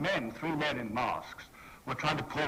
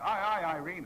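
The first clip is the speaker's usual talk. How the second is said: shouted greeting; 5 semitones higher, 4 dB louder than usual. Retold or imitated. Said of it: "and I shout".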